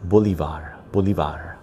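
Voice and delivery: Bolivar with a soft, light V; Bolivar, soften the V almost to a B. Shown as a demonstration. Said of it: "Soft V, soft V".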